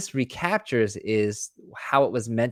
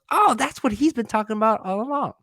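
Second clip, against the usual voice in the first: student realising; 11 semitones higher, 3 dB louder than usual. Retold or imitated.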